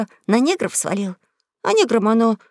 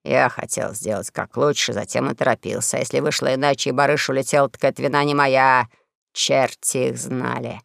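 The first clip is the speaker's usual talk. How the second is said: fierce snap; 8 semitones lower than usual. Acted. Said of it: "Король свирепо огрызнулся".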